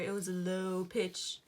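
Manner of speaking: low, steady demonstration voice; low pitch. Shown as a demonstration. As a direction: voice dropped low and level. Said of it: "when we were down here".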